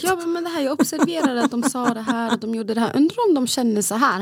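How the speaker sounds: eager retelling. Retold or imitated. Wife sharing observations about kids with uninterested husband, eagerly. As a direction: act out pouring your thoughts on a partner. Re-enacting eager chat to partner.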